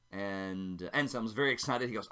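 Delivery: ordinary delivery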